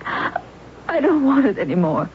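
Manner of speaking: holding back tears while she takes it back; crying. Acted. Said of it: "why are you crying".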